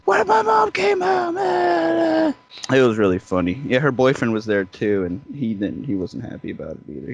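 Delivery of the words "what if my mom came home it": shrill falsetto shriek of a panicked sister; screaming sister. Retold or imitated. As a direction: screech it way up high like a frantic sister. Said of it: "She was screaming at us".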